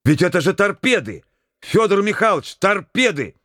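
high, alarmed exclamation; alarmed outcry. A narrator's reading. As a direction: blurt it out in alarm. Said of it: "громко вскрикнул".

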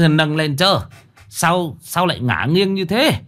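put-on high, panicked stammering old official; frightened funeral official stammering that the coffin is too heavy; terrified. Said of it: "hãi hùng quay lại".

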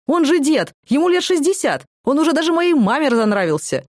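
high, loud, indignant disbelief; incredulous outburst. A narrator's reading. The speaker mocking a cellmate's taste, loud and high. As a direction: shout him down as a joke. Она возмущена певцом.

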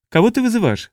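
high-pitched alien creature voice; squeaky Taprisiot. A narrator's reading. Second Taprisiot asks whom to call, high squeak. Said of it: "спросил второй Тапризиот".

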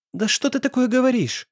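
put-on desperate girl crying out at boyfriend. A narrator's reading. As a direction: burst out, desperate. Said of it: "закричала Настя".

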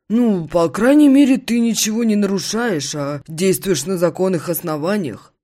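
high, loud approving buddy; friend voice. Acted. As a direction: back him up warmly. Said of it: "поддерживает меня Виктор".

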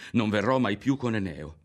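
put-on a boy vowing to himself, mildly firm; resolute. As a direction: steel yourself as you say it. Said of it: "si disse infine cercando di vincersi".

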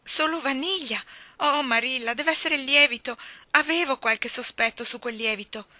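put-on flustered little girl. A narrator's reading. Child blames the yeast to her guardian, flustered.

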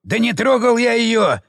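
high, frantic denial; panicked denial. Acted. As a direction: gasp it out, scared. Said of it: "выдохнул мужик".

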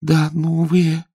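slow, small, mildly scared answer; timid babble. Acted. Elo answers the courtier, mildly frightened. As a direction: shrink back and barely get it out. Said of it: "пролепетала Ело, сжимаясь от страха".

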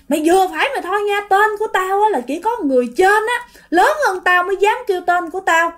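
acted angry rant, not shouted; uncle's scolding. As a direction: scold a younger neighbour indignantly. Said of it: "Xong cái cậu Tám mới la".

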